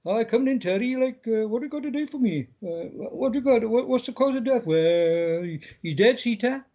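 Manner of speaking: a hint of homely Welsh doctor; Welshie old doctor. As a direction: lightly play a chatty Welsh doctor. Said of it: "I'd like a couple of the characters to be a bit Welshie".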